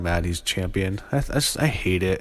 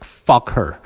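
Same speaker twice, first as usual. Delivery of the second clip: angry; 2 semitones higher, 6 dB louder than usual. Real, not acted. Ranting about injuring wrestler.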